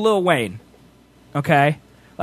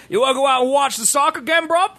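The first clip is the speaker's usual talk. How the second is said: higher-pitched jokey British lad voice; mock British accent; 8 semitones higher than usual. Shown as a demonstration. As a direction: put on a British accent and tack on bruv. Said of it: "you just throw bruv in there".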